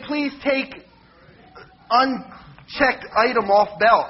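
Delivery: slow, robotic machine announcement. Retold or imitated. Preacher quoting the self-checkout machine, slow robotic voice. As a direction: spell it out flat like a checkout robot. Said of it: "and it'll say".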